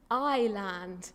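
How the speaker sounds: "Island" said with no R sound; British way. Shown as a demonstration. Teased speaker redoing the word, British way. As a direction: say "Island" slowly, R left out. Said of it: "I can do it in a British way".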